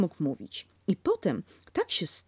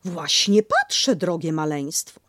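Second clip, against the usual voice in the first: a touch of stern mother, slowish; firm but mild; rather sternly; 5 dB louder than usual. Acted. Kanga to the baby, a touch stern. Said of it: "rzekła Kangurzyca raczej surowo".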